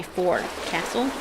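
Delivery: "forecastle" in full, rising at the end; as spelled. Shown as a demonstration. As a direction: say "forecastle" as two whole words, fore and castle. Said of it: "what this word's supposed to be".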